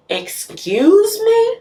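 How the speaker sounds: high, slow indignant "Excuse me?"; patient mocked as huffy and entitled. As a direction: play the offended patient, stretching it out. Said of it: "you know how entitled people talk?".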